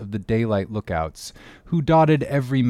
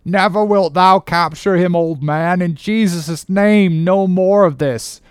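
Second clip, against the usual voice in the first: high, loud impassioned protest; crying out; 7 semitones higher, 7 dB louder than usual. Acted. Starbuck begging his captain to stop the chase, crying out. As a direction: plead at full voice, building in outrage. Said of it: "cried Starbuck".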